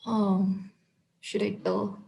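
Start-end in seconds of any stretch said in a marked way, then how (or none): 1.2-2.0 unvoiced low whisper. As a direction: whisper it nervously. Hushed aside to listener.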